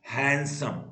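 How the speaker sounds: हैंडसम as हैंड, सम, two beats; lightly part हैंड from सम in हैंडसम; teacher sounding out हैंडसम by syllable; syllable split. Shown as a demonstration. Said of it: "दो syllable word है".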